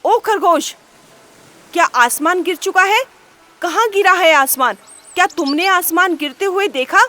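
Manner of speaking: lion king roaring at the rabbit, loud. Acted. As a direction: thunder at the rabbit. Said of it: "शेर ने गरजते हुए खरगोश को बोला".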